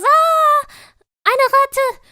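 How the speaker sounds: high, loud scream of fright at a rat; a mother shrieks at a rat in German; startled mother's shriek. Retold or imitated. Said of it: "and my mama goes".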